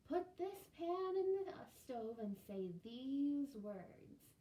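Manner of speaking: slow, loud, solemn; wise old woman. Acted. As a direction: hand down a magic spell. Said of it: "the old woman said".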